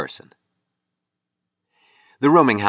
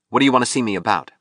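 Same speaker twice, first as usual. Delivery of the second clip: quick, higher, belligerent question; impatient; 5 semitones higher, much faster than usual. Acted. Sculptor questioning a caller on the phone, impatient. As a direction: fire the question back impatiently.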